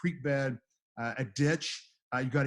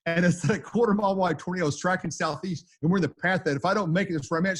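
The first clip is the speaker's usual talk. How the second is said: urgent; 4 semitones higher, 6 dB louder than usual. Retold or imitated. Urgent call during tornado.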